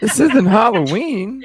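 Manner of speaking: laughing. Real, not acted. Laughing at the witch cackle.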